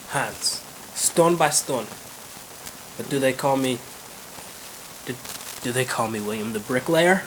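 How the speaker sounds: boastful Irishman in a halting brogue; Irish accent. Acted. William boasts to Edward about the road, Irish accent. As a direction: put on an Irish accent, pausing between phrases. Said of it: "there's two Irish guys".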